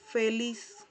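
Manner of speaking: feliz as "fe-LIS"; final z as S. Shown as a demonstration. Teacher shows the same-as-Spanish ending, feliz with final S. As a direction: end feliz on a long clear S. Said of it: "como si al final tuviese una S".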